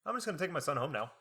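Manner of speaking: high, airy mock-innocent mom; mom feigning innocence. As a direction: brush it off as a put-on mom. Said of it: "She'd be like".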